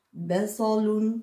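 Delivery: Basalun said slowly with a heavy emphatic S; teacher stretches Basalun to show the swollen Sad; puffed-up Sad, slowly. Shown as a demonstration. Teacher models the heavy Sad slowly for the children. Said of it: "il est gonflé".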